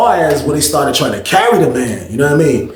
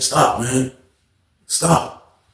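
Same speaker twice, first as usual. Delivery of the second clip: quiet refusal; 2 semitones lower, 6 dB quieter, much slower than usual. Retold or imitated.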